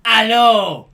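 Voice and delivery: hammed-up, loud corporate host; expected presenter. Podcaster mocking the presenter he expected at the Nintendo show, hammed-up loud announcer. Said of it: "a guy to come up and be like".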